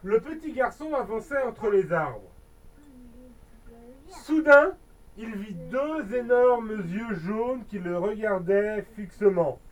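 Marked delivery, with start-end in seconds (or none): 4.1-4.8 sudden loud narration. A narrator's reading. Suspense in ghost story.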